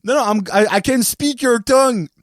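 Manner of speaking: put-on old lady. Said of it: "pas capable de mettre deux mots en anglais".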